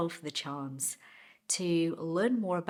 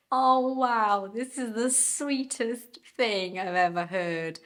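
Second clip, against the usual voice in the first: much higher, louder, moved wow; touched exclamation; 6 semitones higher, 6 dB louder, slower than usual. Retold or imitated. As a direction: gush with delight at the story. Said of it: "I was like".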